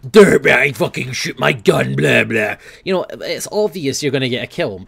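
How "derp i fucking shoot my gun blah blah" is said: loud, goofy derpy voice; mock a clueless shooter, loud and silly; hammed-up idiot gamer mocking other players; mocking dumb player. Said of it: "You don't just come in and go".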